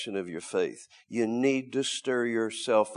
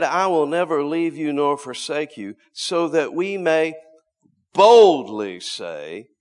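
boldly spoken; 3 semitones higher, 7 dB louder than usual. Shown as a demonstration. Preacher showing how the verse must be spoken, boldly. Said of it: "but to be boldly spoken".

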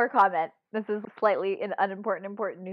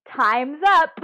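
phone voice; 7 semitones higher, 10 dB louder than usual. Retold or imitated. Phone announces countdown over.

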